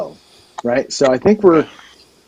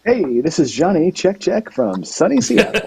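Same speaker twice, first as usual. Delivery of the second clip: imitating Jeff; 4 semitones higher, slower than usual. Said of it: "that's me trying to be Jeff right there".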